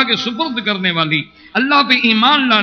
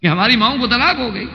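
fast, higher, pressing words; mild urgent plea; 5 semitones higher, faster than usual. Retold or imitated. Umar urging the Prophet about the weeping companions, fast and high. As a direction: hurry to tell him the news. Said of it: "میں نے کہا".

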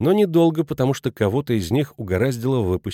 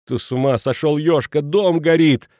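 alarmed; 4 semitones higher, 4 dB louder than usual. A narrator's reading. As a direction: wake him to the fire. Wife alarms husband, fire.

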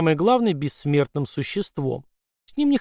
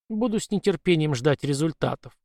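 indifferent. Acted. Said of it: "равнодушно ответила Сандей".

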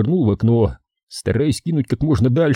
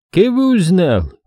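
slow, raised suspicious ask; slow probing question; 9 semitones higher, 4 dB louder than usual. A narrator's reading. Сулейман допытывается. (медленный подозрительный вопрос)

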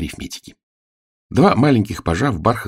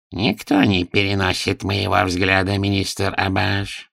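smirking; 2 semitones higher, slower than usual. Acted. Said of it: "усмехнулся Нушрок".

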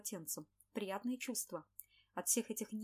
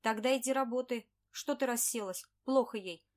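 louder, contemptuous boss barking; scornful order; 3 semitones higher, 8 dB louder than usual. Acted. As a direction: sneer at her to get back to work.

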